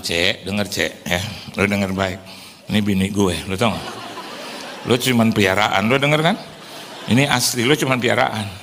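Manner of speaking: low, measured talking-to; mock stern warning. Husband warns wife's pet dog off, mock stern.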